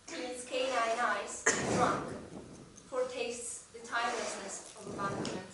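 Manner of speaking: deliberate recital, phrase by phrase; measured, slightly projected verse reading; poem reading. Acted. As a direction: read the short poem out with weighted pauses. Reads their translated poem aloud.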